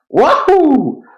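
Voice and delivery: high, gleeful whoop; cheering. Real, not acted. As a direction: cheer the lucky roll. Great dice roll, cheering.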